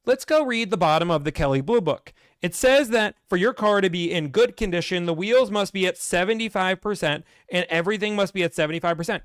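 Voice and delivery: lightly voiced slick dealer; slick dealer pitch. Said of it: "bottom and say".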